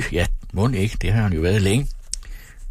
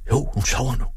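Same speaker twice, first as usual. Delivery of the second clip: higher-pitched, voiced assurance; decided; 6 semitones higher than usual. A narrator's reading. Father settles that mother is asleep, decided. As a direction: conclude it with conviction. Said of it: "sluttede han bestemt".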